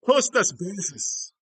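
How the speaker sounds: slow, high, loud proclamation; hammed-up name call. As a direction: belt the name out, drawn out. Hammed-up repeat of friend's name.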